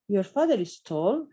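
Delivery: "Your father is tall" said slowly with a rise on "father"; slow question tune. Shown as a demonstration. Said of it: "esto no estaría bien".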